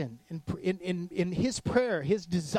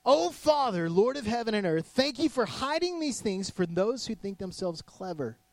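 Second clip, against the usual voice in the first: prayer voice; 4 semitones higher than usual. Retold or imitated. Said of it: "he prayed this prayer".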